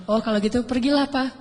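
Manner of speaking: mock wife, laughing. Mock wife sending husband off.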